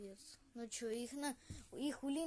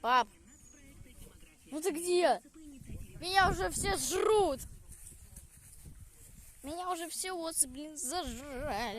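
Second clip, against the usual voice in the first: yelling across the room; 5 semitones higher, 6 dB louder than usual. Real, not acted. Being stung, yelling for dad.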